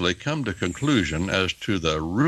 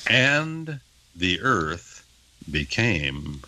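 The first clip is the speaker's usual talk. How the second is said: slow reading; much slower than usual. Shown as a demonstration. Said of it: "the Hebrew text says".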